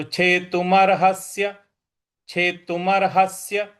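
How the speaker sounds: छेतुमर्हस्य with force on the half स; stress on half s. Shown as a demonstration. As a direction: lean into the स of छेतुमर्हस्य. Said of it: "आधा स है उस पर हमको फिर बल लगाना है". (आधे स पर बल)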